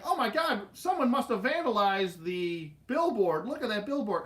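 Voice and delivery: high gasp then pointing it out; hammed-up tour guide shock; announcer alarm. Ride announcer on the mic, mock alarm at the vandalized billboard. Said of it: "he's like".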